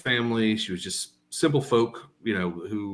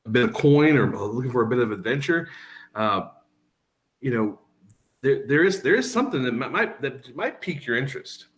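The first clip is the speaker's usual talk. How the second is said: hesitant, stammering approach; a touch nervous. Acted. Timid stranger approaching three intimidating adventurers, mildly nervous. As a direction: feel your way politely, with false starts. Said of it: "not as nervous".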